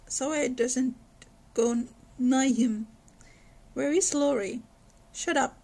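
lightly voiced reading of a novel; story narration. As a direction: read it like a storyteller. Reads novel aloud.

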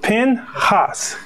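"Pinhas" in two separate syllables, pin-HAHS; "Pinhas" with the accent on the second syllable; Hebrew pronunciation. Shown as a demonstration. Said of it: "the accent is on the second syllable".

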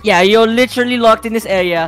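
put-on British teacher voice; British accent. Teacher to late pupil, scolding in British accent. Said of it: "I forgot you're British".

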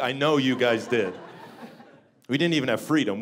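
ordinary delivery

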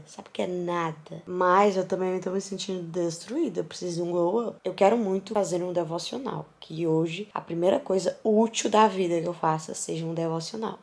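normal talking voice

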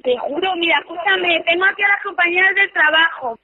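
shaky relieved laughter; relieved laughing. Real, not acted. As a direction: laugh off the scare. Relieved after prank reveal.

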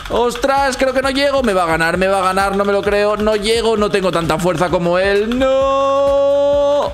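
mock panic. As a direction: rise to a despairing cry. Losing the contest.

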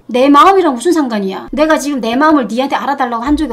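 loud, indignant retort; real anger. Real, not acted. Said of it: "내가 화를 낸 거지". (화난 목소리로 따지듯이)

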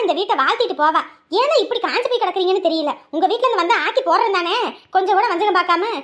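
loud mocking jabs at him; sarcastic taunt. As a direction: needle him, loud and scornful. Wife taunting husband in quarrel.

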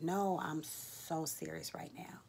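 slow, earnest hushed insistence; earnest whisper. Retold or imitated. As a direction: whisper it, dead serious. Insisting to laughing coworker.

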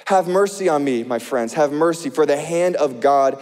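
earnest preacher reading scripture. Acted. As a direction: read Job's complaint with feeling. Reads Job's lament.

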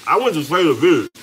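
talking through a mouthful of food; words round a bite of fries; mouth full. Real, not acted. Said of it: "I ain't gonna talk with my mouth full".

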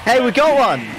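excited. Real, not acted. Cheering their win.

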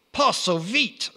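high, slow French Napoleon voice; mock French emperor, slow and high; French accent. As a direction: put on a comic French accent, lifted high. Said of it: "said Napoleon".

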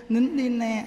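put-on coaxing a child to stop crying; soothing hush. Carer to crying grandchild, soothing coaxing. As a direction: hush the child gently, in an even lilt. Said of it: "mình dỗ nó".

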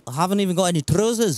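put-on hammy Scottish accent; Scottish accent attempt. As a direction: chat in an amateur Scottish accent. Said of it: "I tried to do a Scottish accent".

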